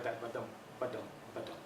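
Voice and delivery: quiet "ba-dum, ba-dum" like hooves, long-short beats; galloping rhythm. Shown as a demonstration. Lecturer imitating English rhythm as a galloping horse, softly. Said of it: "like a galloping horse".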